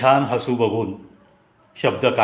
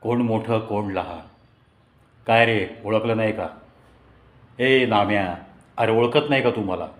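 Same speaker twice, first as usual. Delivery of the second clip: teasing, stern telling-off; mock thunderous scolding. Narrator pretending anger at his old classmate, mock stern. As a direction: put on a stern voice to fool him. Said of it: "तसा मी कडाडलो".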